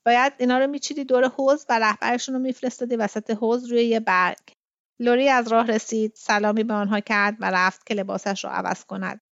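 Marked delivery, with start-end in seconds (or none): 0.1-4.4 cheerful. Acted. Kitty remarking on the frog-like orchestra, cheerful. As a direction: exclaim it with cheerful amusement. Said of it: "با صدای شاد".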